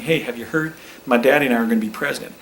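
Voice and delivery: eager boast, rushed at the end; mock young Bush bragging to every table; a hint of a boyish Bush; impersonating George W. Bush. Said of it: "what I was going for there".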